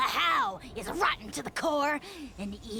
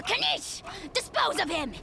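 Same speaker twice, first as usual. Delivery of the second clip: higher-pitched, exasperated order to a servant; indignant command; 5 semitones higher than usual. Acted. Indignant dragon lord orders his servant.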